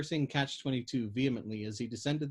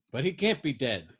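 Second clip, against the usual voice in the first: a touch louder insistent protest; cried out; 4 dB louder than usual. Acted. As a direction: push back, insisting. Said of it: "Yossarian cried".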